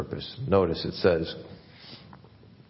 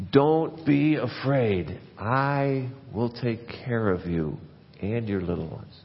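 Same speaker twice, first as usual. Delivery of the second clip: tender reassurance; 3 semitones higher, slower than usual. Acted. Tender quote of Joseph.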